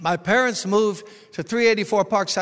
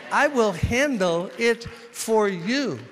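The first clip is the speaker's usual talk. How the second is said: slow reassurance; 5 semitones higher, 3 dB louder, slower than usual. Acted. Jesus' promise repeated, slowed.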